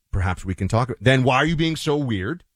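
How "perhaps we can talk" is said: mock-neutral, measured and a little low; overly neutral. Shown as a demonstration. Man showing a tone that fails in arguments, overly neutral. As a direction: demonstrate a carefully even, diplomatic tone. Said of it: "if you go too neutral".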